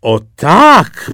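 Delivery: high, loud courtly "O tak"; eager agreement. Acted. Courtiers agree with the emperor, eager and loud. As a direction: courtiers fawning over nothing.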